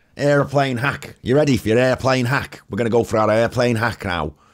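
loud, high Liverpool Scouse accent. At the gate before boarding, announcing the airplane hack, in a Scouse accent. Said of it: "Why am I going Scouse?".

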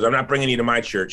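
fast, rasping, raspy put-on voice. Quoting a friend who invited the speaker to church, imitating a raspy voice. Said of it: "She had this like raspy voice".

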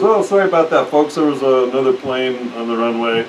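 usual speaking voice

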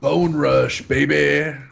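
low, rough professional wrestler promo voice. Boasting about an attack in a game: professional wrestler voice. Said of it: "I decided to sound like a professional wrestler".

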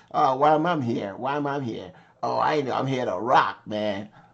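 put-on nonchalant musing. Voicing a guitarist in a video: imitating someone nonchalant. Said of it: "nonchalant, like".

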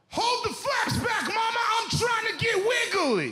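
play-acted shrill, very high, wild yell. Told to just say whatever crossed his mind, retelling a yell. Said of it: "and I yelled".

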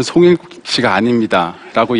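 ordinary delivery

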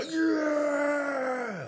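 mock battle shout, high and loud, belted out.

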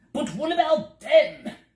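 shrill, very high, loud, terrified cry. As demons leap forward to seize them, the bug gives a terrified cry. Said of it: "cried the terrified bug".

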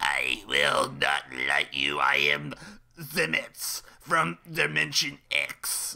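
gurgly voice, words very slow and drawn out. Describing an actor's performance, imitating his gurgly voice. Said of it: "him talking in this gurgly voice, like".

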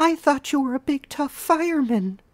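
put-on very high, girlish falsetto. Voicing the Millicent toy, protesting to a fireman figure, in girly falsetto. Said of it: "Someone moved to someone else, twisting her to look at them. "Aren't you going to do something?" she protested in the speaker's girl voice falsetto. ... she protested in the speaker's girl voice falsetto".

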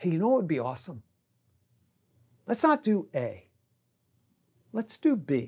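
quiet, soft half-whisper. A dad pulls one child aside to suggest something, half-whispering. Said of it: "I might just whisper like".

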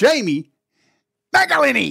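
loud, high-pitched Australian accent on the name. Introducing a guest onto the show, saying his name in an Australian accent. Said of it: "I'm going to say it like that, like a fucking Aussie".

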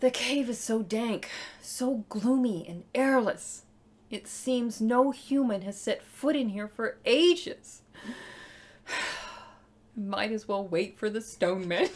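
soft, very slow, mournful, plaintive reading. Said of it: "and be plaintive".

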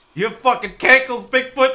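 mock, high, loud, taunting yell.

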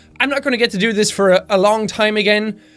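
ordinary delivery

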